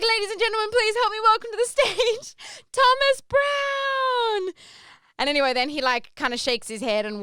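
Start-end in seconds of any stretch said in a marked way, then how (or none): 0.0-4.5 high, booming showman announcement; big announcer intro. Retold or imitated. Host introducing the comedian to the crowd, big announcer voice. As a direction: sell the name like a game-show host.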